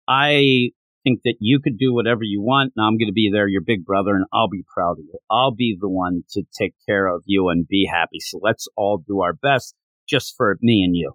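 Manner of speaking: low, gently understated comfort; reassuring big brother. Retold or imitated. Big brother promises to look after Sanjuro, low reassurance.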